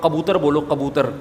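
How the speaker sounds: کبوتر with a throaty q for its first k; mispronounced کبوتر. Shown as a demonstration. Preacher showing listeners a laughable slip, کبوتر mispronounced with q. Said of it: "مذاق اڑتا ہے نا، ایک لفظ".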